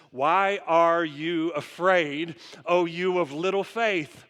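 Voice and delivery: slow, gentle rebuke from Jesus; calm Jesus rebuke. Retold or imitated. Jesus gently rebuking his frightened disciples, slow and calm. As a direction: let each word land slowly, unhurried. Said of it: "He says".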